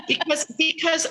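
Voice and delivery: laughing with embarrassment; embarrassed laugh. Real, not acted. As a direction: laugh sheepishly through the admission. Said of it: "it's embarrassing".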